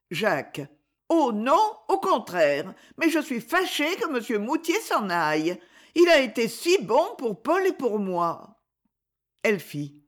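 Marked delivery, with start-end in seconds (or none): 1.1-8.6 put-on young boy's voice, anxious and eager, higher; a little boy worried he's done wrong; voix d'enfant. (petit garçon inquiet, voix plus aiguë)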